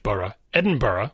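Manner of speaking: "borough, Edinburgh" both ending in "buh-ruh"; buh-ruh pronunciation. Shown as a demonstration. Podcaster spelling out the first option, buh-ruh pronunciation. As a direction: reduce the end of "Edinburgh" to two "uh" syllables. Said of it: "where it's B U H R U H".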